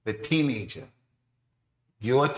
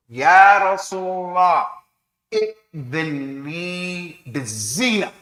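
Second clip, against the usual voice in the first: loud pleading; 6 semitones higher, 7 dB louder, slower than usual. Acted. Young man begging the Prophet.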